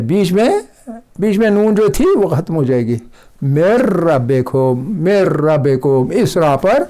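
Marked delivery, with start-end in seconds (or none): 3.4-6.1 slow मेर रबे को with the ra doubled; slow recitation. Shown as a demonstration. Teacher recites slowly for students, ra doubled. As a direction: draw out मेर रबे को, the nun swallowed into रर. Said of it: "ये लफ्ज़ ऐसे पढ़ा जाएगा".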